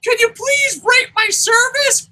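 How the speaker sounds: slow, loud falsetto plea; very high parody of a polite worker; YouTube employee. Retold or imitated. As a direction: ask in a squeaky, drawn-out service voice. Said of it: "Here's a YouTube employee".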